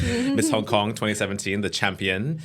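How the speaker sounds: light announcer-style title call; pageant host voice. Pretend. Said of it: "wanna say that with a pageant voice".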